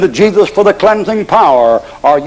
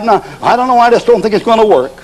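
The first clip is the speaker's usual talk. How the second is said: fretful husband; 5 semitones higher than usual. Acted. Husband keeps doubting.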